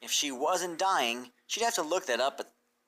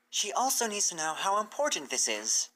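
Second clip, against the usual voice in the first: higher, earnest; a serious mare stressing importance; Twilight's voice; 6 semitones higher than usual. Acted. Twilight insists.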